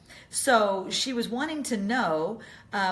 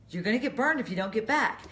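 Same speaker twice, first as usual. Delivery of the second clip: quicker, more urgent mock warning; insistent warning; 4 semitones higher, 3 dB louder, faster than usual. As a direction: repeat it louder and hurried, escalating. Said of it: "your husband looks at her and says".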